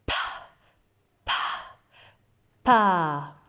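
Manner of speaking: slow, separate sounds pa, pa, pa; teacher modelling pa, pa, pa; sounding out a syllable. Shown as a demonstration. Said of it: "Ça va me faire".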